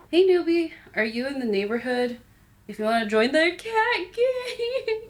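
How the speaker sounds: high, cocky street cat; hammed-up cat gang recruiter; tough cat voice. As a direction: play a gang cat welcoming a newbie. Voicing a cat in game.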